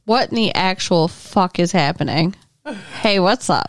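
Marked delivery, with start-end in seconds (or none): 3.0-3.7 put-on Southern accent. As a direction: lay on a thick hick accent. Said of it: "Redneck Bubba Joe".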